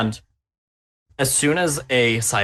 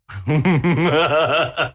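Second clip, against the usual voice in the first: gleeful villainous cackle; evil laugh; 3 semitones higher than usual. Real, not acted. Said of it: "The evil laugh".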